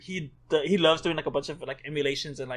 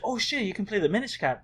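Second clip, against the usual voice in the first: retold excitement; 6 semitones higher than usual. Voicing her excitement at favorite game.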